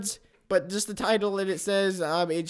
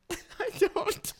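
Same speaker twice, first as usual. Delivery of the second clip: much higher, crying-laughing; teary high reply; 5 dB quieter than usual. Acted. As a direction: squeeze out a tearful little answer. Caller's answer, teary retelling.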